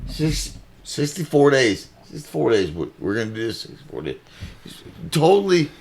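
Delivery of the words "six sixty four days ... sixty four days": mock Boston Kamala. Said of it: "she's like".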